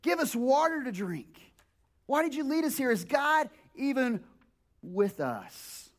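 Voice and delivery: slow, pleading demand; demanding Israelites. Retold or imitated. Israelites demanding water from Moses, mild pleading demand. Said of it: "they're saying".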